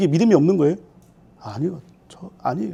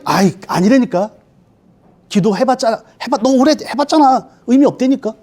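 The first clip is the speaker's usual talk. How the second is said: Satan nagging; 3 semitones higher than usual. Acted. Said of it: "사단이 이렇게 되는 거예요".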